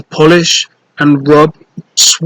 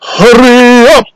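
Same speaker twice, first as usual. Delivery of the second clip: much higher, loud impatient bark; giant's order; 8 semitones higher, 4 dB louder than usual. Acted. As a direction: hurry the children up.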